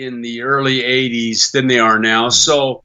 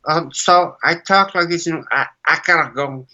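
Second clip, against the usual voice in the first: mumbling Brando impression, laid back; bad Brando; 3 semitones higher than usual. Shown as a demonstration. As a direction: slur it like a lazy Brando. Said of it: "my really bad Brando".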